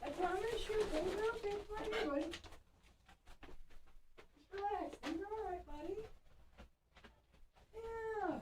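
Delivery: calm the excited puppy, gently; soothing the dog. Real, not acted.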